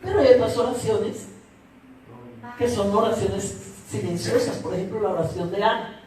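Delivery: soft, low voice for describing silent prayer; hushed. Real, not acted. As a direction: drop to a low, reverent hush. Describing Hannah's silent, unheard prayer. (en voz baja y grave, con recogimiento)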